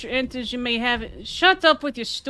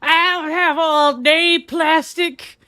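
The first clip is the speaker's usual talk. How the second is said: slow, loud, a bit higher sneer; snooty taunt; 4 semitones higher, 4 dB louder, slower than usual. Acted. Sneering at a card game rival, slow loud snob. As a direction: talk down to him like a rich snob.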